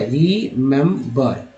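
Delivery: रिमेंबर broken into three slow beats: री, मेम, बर; syllable by syllable. Shown as a demonstration. Teacher showing three sounds of one vowel, रिमेंबर syllable by syllable. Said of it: "तीन तरह से उच्चारण किया गया है".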